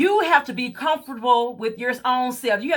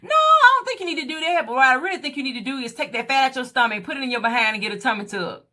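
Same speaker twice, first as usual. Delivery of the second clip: friend's blunt advice; faster than usual. Retold or imitated. Friend advising her to get a tummy tuck, quick and matter-of-fact. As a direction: rattle off the friend's suggestion. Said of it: "but she said".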